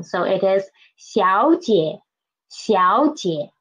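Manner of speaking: 小 rising as a second tone before a low 姐; 小 goes up, 姐 stays low; tone sandhi. Shown as a demonstration. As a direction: demonstrate the sandhi on 小姐. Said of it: "will transform into second tone".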